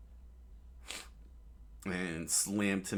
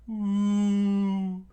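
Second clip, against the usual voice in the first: sudden high yelp, much louder; a high, piercing battle whoop; high shout; 13 semitones higher, 7 dB louder than usual. Acted. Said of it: "he screamed out".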